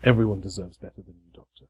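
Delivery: low, quick reproach fading very quiet; understated bitter hurt, dropping away at the end; betrayed. Acted. Betrayed boy answering the Doctor, low reproach.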